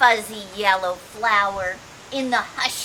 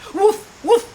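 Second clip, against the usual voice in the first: mock woof, higher; dog bark; 10 semitones higher, 7 dB louder than usual. A narrator's reading. Reading to kids, playful dog woof.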